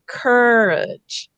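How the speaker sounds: courage as CUR-idge, first part stressed and drawn out; stressed middle syllable. Shown as a demonstration. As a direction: lean on CUR in courage, light "idge" ending. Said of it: "stressing the, the middle syllable".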